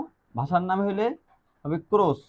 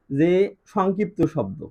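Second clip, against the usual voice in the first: slow dictation; much slower than usual. Shown as a demonstration. Teacher to students, introducing the term, slow dictation. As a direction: spell out যে সংক্ষিপ্ত শব্দ slowly, word by word. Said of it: "কি শব্দ?".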